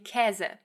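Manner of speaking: 'Käse' with a long, open eh; standard open Ä. Shown as a demonstration. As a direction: say 'Käse' the Hochdeutsch way, wide ä. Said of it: "the way I say it".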